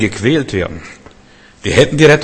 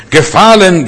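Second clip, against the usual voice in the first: angel's battle cry; 7 semitones higher, 6 dB louder than usual. Acted.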